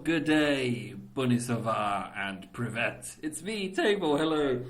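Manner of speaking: big, loud, high channel greeting; loud excited intro. Acted. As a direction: shout the hello to viewers.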